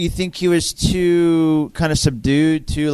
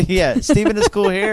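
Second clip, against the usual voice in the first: laughing; 5 semitones higher than usual. Real, not acted. Laughs while repeating the joke.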